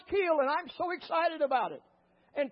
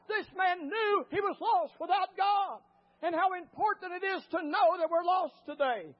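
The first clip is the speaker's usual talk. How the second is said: raised, insistent preacher's delivery; fervent preaching; 4 semitones higher than usual. Real, not acted. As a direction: drive the lesson home to the congregation. Preaches the story's lesson.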